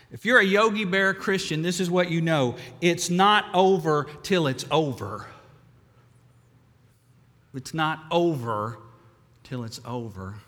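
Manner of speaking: put-on a Brooklyn buddy driving the point home in Brooklyn accent. Billy insisting to Ed, emphatic Brooklyn accent. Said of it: "And this is what he said".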